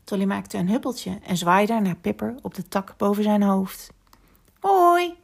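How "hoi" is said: high, loud cheery hello; bright-hearted playful hail; cheerful greeting. A narrator's reading. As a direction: call out a happy, drawn-out hi. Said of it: "Vrolijk huppelde hij verder".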